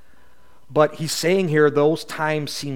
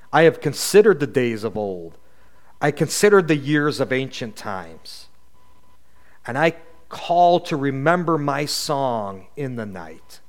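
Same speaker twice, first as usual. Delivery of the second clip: solemn psalm reading; scripture reading. Acted. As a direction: read it like a lament from the pulpit. Reads psalm aloud before teaching.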